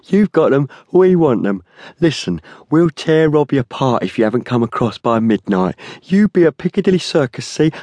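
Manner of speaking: high-pitched, nasty threat. A narrator's reading. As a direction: lay down the demand like a menacing tough. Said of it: "he said nastily".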